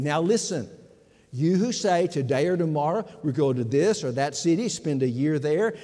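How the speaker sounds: scripture reading. Acted. Preacher reading James to the congregation, emphatic. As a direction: read it out with weight.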